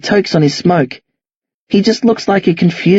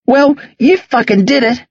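higher, bleating protest; scared, hurt child; 8 semitones higher than usual. Acted. Boy backed into corner accusing old man, scared and hurt. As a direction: blurt it like a hurt kid. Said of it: "sounds like a child, like a bleating, scared, hurt kid".

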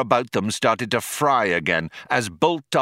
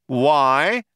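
higher, projected question; Zaphod shouting back; 5 semitones higher, 4 dB louder than usual. A narrator's reading. Zaphod answers the cop's warning, shouting back. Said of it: "shouted back Zaphod".

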